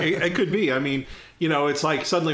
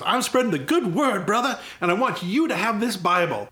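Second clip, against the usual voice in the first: Impression of a singer; 6 semitones higher than usual. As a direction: draw out the blessing like a showy preacher. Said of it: "He goes".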